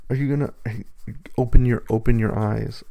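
loud coaxing. Real, not acted. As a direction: push them to open their eyes. Urging partner awake.

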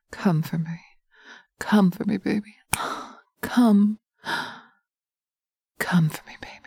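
sensual hypnotic ASMR. Acted. Dominant partner guiding the listener through hypnosis, intimate murmur. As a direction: coax the listener like a lover in their ear.

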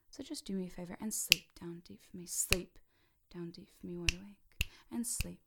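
firm trance voice with a punched SLEEP; hypnotic command. Shown as a demonstration. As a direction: command them down, hitting Sleep loudly.

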